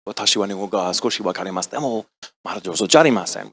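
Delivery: soft, low, careful recital in Japanese; polite best Japanese. Retold or imitated. Actor addresses important producers in Japanese, demurely polite. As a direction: imitate your own demure, polite attempt. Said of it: "I say in my best Japanese".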